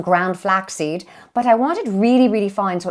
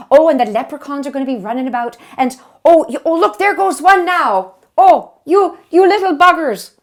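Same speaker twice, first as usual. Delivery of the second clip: mock startled scolding; 4 semitones higher, 4 dB louder than usual. Scolding imaginary leprechauns.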